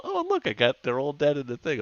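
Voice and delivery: delighted at the full trap; lightly voiced trap owner; mock surprised finder. Voicing person finding dead mice.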